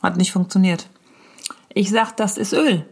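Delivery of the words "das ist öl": hushed embarrassed whisper. Retold or imitated. Comedian whispering her embarrassed answer to a nosy child. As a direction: whisper it so nobody hears.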